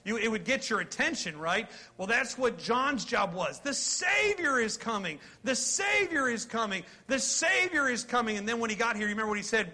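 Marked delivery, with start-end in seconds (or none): 3.6-8.4 higher, ringing announcement; calling the news to the crowd; heralding call. Pretend. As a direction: proclaim it like a herald in the street. Preacher calling out John's message.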